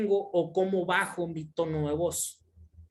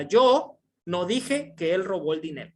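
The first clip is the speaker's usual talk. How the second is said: "Yo" marcado al inicio; énfasis en YO. Shown as a demonstration. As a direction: golpea la palabra "Yo". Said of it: "en negrita y en mayúsculas es donde le voy a hacer el énfasis". (acento enfático en "Yo")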